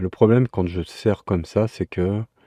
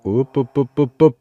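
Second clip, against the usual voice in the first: urging on; 5 semitones higher, 5 dB louder than usual. Real, not acted. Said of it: "quel manque de conviction".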